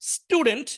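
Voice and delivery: স্টুডেন্ট with a hard retroflex ট after the s; t as Bangla ট. Shown as a demonstration. Teacher showing students the ট sound in স্টুডেন্ট. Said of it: "থ্রিটা বাংলা টয়ের মতো উচ্চারিত হবে".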